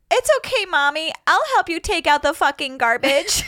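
put-on high sweet little kid; chirpy kindergartener voice. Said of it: "I said to her".

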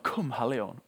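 a half-voiced echo of the cry; mild retold call. Preacher repeating the call to the congregation, mild mock shout. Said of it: "så ropte han".

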